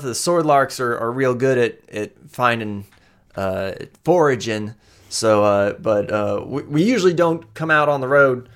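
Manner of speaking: nervous Amoya. Acted. Amoya explains herself.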